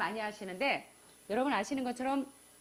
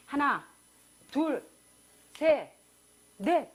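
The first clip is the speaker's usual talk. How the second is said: louder, punched count; 6 dB louder, much slower than usual. Shown as a demonstration. Preacher demonstrates counting under stress, loud and firm. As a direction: count each number firmly. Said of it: "스트레스 받는 상황에서".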